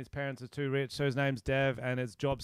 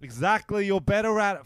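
possessive whining; 7 semitones higher, 6 dB louder than usual. Real, not acted. Whining to dodge the call.

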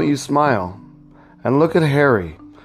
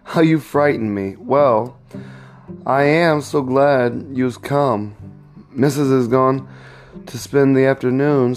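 lightly voiced happy young wife; a hint of delighted surprise at seeing him; glad greeting; 2 semitones higher than usual. Eliza greeting her husband George gladly, a touch of delight. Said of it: "a bright smile lightened up her fine eyes".

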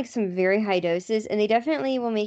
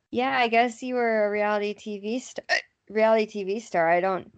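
talking through hiccups; hiccuping mid sentence. Real, not acted. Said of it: "That margarita is giving me the hiccups".

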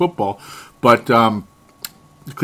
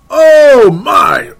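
mock dismay; 11 semitones higher, 10 dB louder than usual. Mocking Richardson's stat line.

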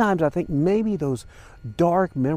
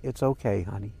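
softer, lower, gently consoling; tender reassurance; 6 semitones lower, 8 dB quieter than usual. Retold or imitated. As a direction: retell her comforting words quietly. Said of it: "she was saying".

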